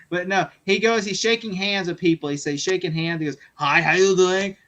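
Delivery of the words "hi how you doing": slow, louder imitated hello; lightly voiced celebrity working a line; drawn-out mock glad-handing; retold star greeting. Retold star greeting while shaking hands.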